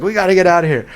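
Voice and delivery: high, loud mimicked Jamaican accent. Mimicking panicked client urging escape, high Jamaican accent. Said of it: "in his, like, Jamaican accent".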